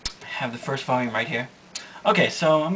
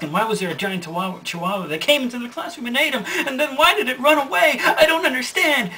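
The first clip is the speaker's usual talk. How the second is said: growing bafflement; 3 semitones higher than usual. Acted. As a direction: climb steadily into giggly confusion. Sakura's baffled thoughts pile up.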